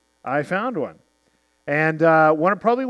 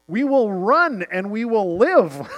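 hilarious answer; 5 semitones higher, 3 dB louder, slower than usual. Retold or imitated. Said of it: "this hilarious answer back".

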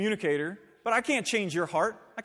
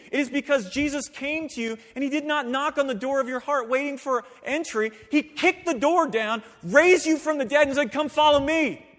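louder, higher rising proclamation; full-force preaching; 4 semitones higher, 6 dB louder than usual. Acted. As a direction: build it like a sermon climax.

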